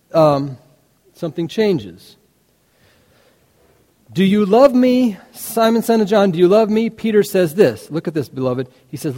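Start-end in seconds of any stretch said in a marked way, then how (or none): 4.1-6.9 higher, urgent plea; pressing question. Retold or imitated. Jesus pressing Peter a third time, higher and urgent.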